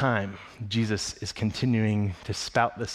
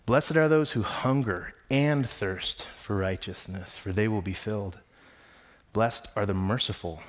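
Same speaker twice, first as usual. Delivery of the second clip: scripture reading; 3 semitones lower than usual. Acted. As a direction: read the Beatitudes with reverent weight. Reads Matthew 5 aloud.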